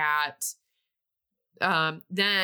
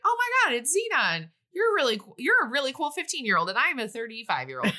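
gushing fanboy; 7 semitones higher than usual. Retold or imitated. Protozoa gushing to teenage Xenon, high starstruck squeal. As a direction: squeal it like a starstruck fan meeting his idol.

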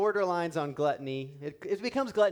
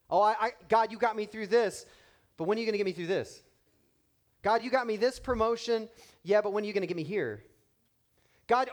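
restless pray-er; 5 semitones higher, 3 dB louder, faster than usual. Retold or imitated. Voicing a restless prayer.

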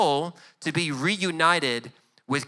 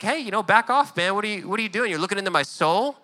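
mock testy; 4 semitones higher, faster than usual. Answer gets testy.

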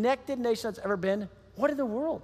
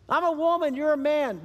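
incredulous Samaritan woman; 5 semitones higher than usual. Acted. Samaritan woman questions Jesus at the well, higher and unbelieving. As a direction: balk that a Jew would ask her.

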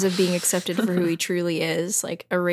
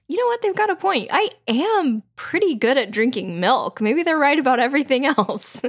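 mock convert; 6 semitones higher than usual. Voicing Theo converted.

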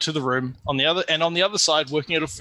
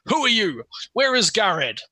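yelling dwarf leader; 5 semitones higher, slower than usual. Acted. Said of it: "yells in common".

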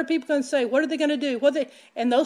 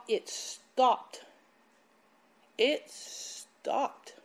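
awed whisper; 6 dB quieter, much slower than usual. Real, not acted. The hail suddenly stopped.

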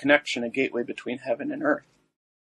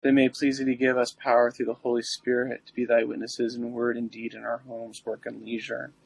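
prayer. Acted. Recites the litany.

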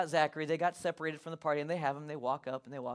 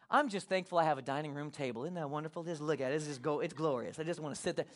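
lower, easygoing murmur of mock gratitude; mock contentment; 5 semitones lower, 5 dB quieter than usual. Preacher pretends not to mind his lost phone, mock contentment. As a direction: play blissfully content, settled and unbothered. Imagined contented reply to loss.

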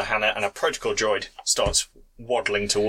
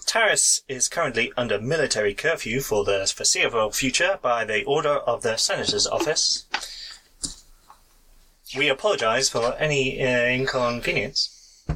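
hint of a recorded announcement; polite canned system message; automated voice. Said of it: "this is very much an automated voice".

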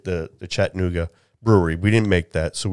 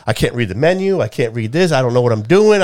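flustered; 4 semitones higher, 5 dB louder than usual. Retold or imitated. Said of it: "now I'm getting all flustered".

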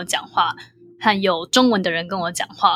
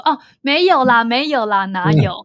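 bright, higher, modest denial; modest brush-off; 3 semitones higher than usual. Retold or imitated. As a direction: wave off the compliment bashfully. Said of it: "我就说".

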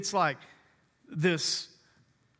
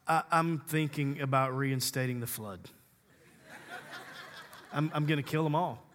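voicing God; 4 semitones lower, 5 dB quieter than usual. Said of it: "when he said".

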